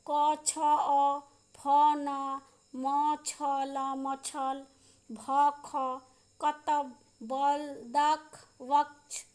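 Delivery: "क, छ, अ" as separate, drawn-out letters; letter-by-letter reading. Shown as a demonstration. Teacher reading incomplete exercise words to pupils, spelled out. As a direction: sound out "भ, ख" firmly, one at a time.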